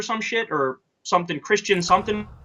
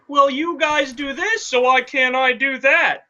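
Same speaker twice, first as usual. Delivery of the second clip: slow, slightly raised mock pleading; imitating a whiny comeback, mildly hammed; imitated argument; 3 semitones higher, slower than usual. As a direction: mimic her argument, drawing out the words. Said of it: "setting it up as like".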